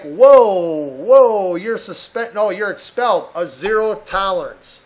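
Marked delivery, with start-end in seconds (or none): 0.0-3.3 mock alarmed mom. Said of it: "and it's like".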